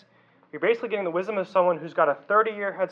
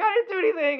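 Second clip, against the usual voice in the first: mild mock indignation; 11 semitones higher than usual. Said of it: "I get all mad 'cause I'm like".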